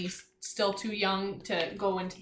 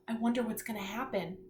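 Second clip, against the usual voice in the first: gasp of wonder; 3 dB quieter, faster than usual. Shown as a demonstration. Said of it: "show me what you think it looks like".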